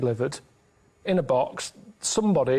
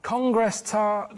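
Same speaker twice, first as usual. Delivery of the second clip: Congress tart even slower, word by word; slower repeat; 4 semitones higher, much slower than usual. Pretend. Carl repeating the code word after Ricky's what, slower still.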